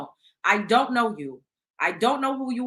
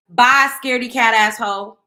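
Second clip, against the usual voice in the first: taunting; 3 semitones higher, 9 dB louder than usual. Real, not acted. Taunting a troll in comments.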